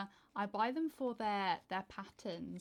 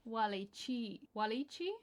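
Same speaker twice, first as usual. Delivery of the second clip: American accent. Shown as a demonstration. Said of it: "it comes up in an American accent".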